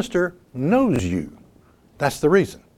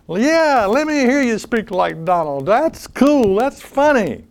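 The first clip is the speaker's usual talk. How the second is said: mock congregation; 6 semitones higher than usual. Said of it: "this is what the people are saying".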